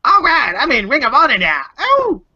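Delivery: high, loud, wildly swooping wrestler shout; terrible A J Styles. Acted. Co-host hamming up a wrestler's Ring of Honor line, high bad impression. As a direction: badly mimic a wrestler crowing with excitement. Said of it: "that's a terrible A J Styles impression".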